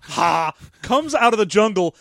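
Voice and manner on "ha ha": metallic laugh. Retold or imitated. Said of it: "metallic cackling".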